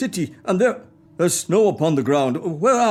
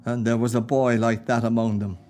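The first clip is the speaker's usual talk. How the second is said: holding back tears; 5 semitones lower than usual. Acted. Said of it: "what is that on your cheek".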